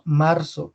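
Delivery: "marzo" with a firm R; strong R. Shown as a demonstration. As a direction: press the R in "marzo". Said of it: "es una R de acento fuerte".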